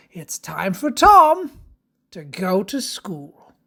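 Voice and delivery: sing-song storybook verse; children's story narration. Acted. Reads rhyme to children.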